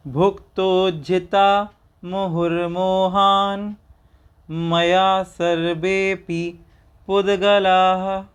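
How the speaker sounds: slow chanted Sanskrit verse; shloka recitation. Shown as a demonstration. Teacher reciting the full Sanskrit shloka, slow and chanted. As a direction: intone the shloka slowly and evenly. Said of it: "पूरे श्लोक का उच्चारण करते हैं".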